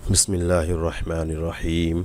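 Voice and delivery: slow, measured bismillah before the lesson; slow Quran recitation. Acted. Teacher opening the Quran lesson for students, slow and reverent.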